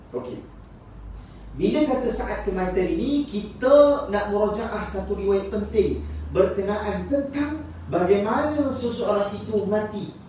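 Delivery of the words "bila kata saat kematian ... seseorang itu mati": slow, higher-pitched sermon delivery; measured, raised preacher's voice; emphatic preaching. Acted. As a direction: draw out each key phrase for the congregation. Preacher introduces an important narration.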